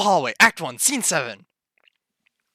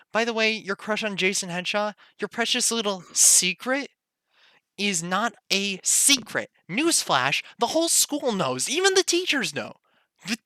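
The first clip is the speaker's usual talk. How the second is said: taunting; 5 semitones higher than usual. Acted. Acted quarrel, taunting and alarm.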